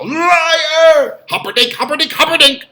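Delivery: high, loud anguished cry of accusation; furious screaming. Acted. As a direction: scream it like a betrayed crowd. Shouted movie quote.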